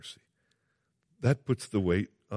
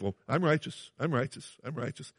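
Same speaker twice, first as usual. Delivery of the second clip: smug self-righteousness; 3 semitones higher, 5 dB quieter than usual. Retold or imitated. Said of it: "Christians can err on the side of".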